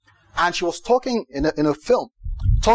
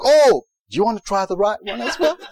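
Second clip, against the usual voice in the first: laughing through a sweet offer; playful, meek turn-the-other-cheek with a laugh; laughing mock offer; 5 semitones higher than usual. Mock meek reply to a slap.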